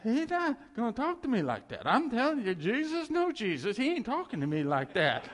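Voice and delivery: wife refusing to be talked to like that; indignant wife. Retold or imitated. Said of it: "But she goes".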